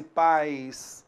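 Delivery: "pais" with the i fading into a glide; falling glide. Shown as a demonstration. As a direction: let the sound drop away on "pais". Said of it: "Olha só como o som decresce".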